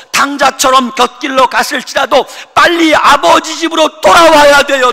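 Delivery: loud, high sung-out plea; half-sung shouted call; urgent shout. Acted. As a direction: cry out for them to come home. Pastor urging return home.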